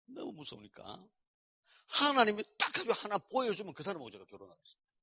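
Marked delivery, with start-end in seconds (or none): 0.0-1.0 너무 무서우니까 said softer and slow; soft repeat. Shown as a demonstration. A man repeating his fear of marriage, softly and slow. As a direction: echo it quietly, almost to himself.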